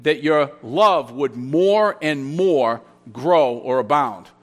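slow, weighted reading leaning on "love"; deliberate emphasis on "love", easing off on "abound"; stress on love. Shown as a demonstration. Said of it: "the emphasis is on the love".

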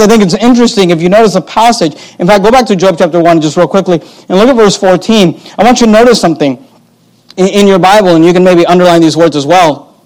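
ordinary delivery

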